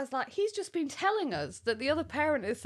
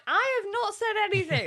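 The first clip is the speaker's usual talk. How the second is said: retold shout; 11 semitones higher, 3 dB louder than usual. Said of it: "she was shouting at the coach".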